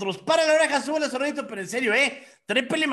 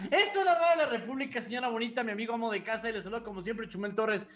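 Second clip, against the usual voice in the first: put-on host patter in a French accent; lightly put-on French accent; 3 dB quieter, faster than usual. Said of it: "¿Por qué el acento francés, Chumel?".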